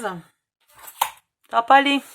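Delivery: slow dismayed drawl, almost to herself; dismayed realisation. Real, not acted. Crafter noticing the box won't fit, dismayed and slow. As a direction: let it sink in that it won't work.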